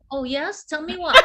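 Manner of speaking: casual, coy, ending in a laugh; playing it cool. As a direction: hide the excitement, act nonchalant. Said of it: "in my head I was saying that".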